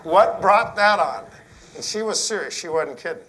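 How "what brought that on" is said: laughing question. Retold or imitated. Laughing, quoting himself to wife.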